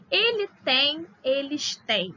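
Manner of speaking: "tem" and "têm" contrasted, plural nasal held; teacher sounds out "tem" then "têm"; ele tem vs eles têm. Shown as a demonstration. Teacher contrasting singular and plural verb forms for students. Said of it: "Pra eu fazer essa diferença de plural e singular".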